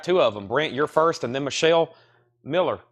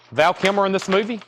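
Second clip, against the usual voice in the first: disbelieving; 7 semitones higher than usual. Real, not acted. Surprised at the cast.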